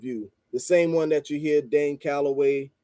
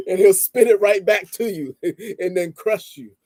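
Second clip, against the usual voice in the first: words broken by laughter, pitch up; amused, laughing delivery; laughing while talking; 4 semitones higher, 4 dB louder than usual. Real, not acted. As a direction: chuckle through the line. Laughing while describing Khaled.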